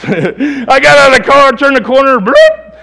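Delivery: loud, high, laughing retelling; telling the stabbing through real laughter; laughing while telling. Real, not acted.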